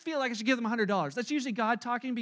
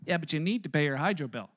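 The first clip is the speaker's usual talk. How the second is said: inner voice of conscience; 7 semitones lower than usual. Acted. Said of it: "that little voice comes on the inside".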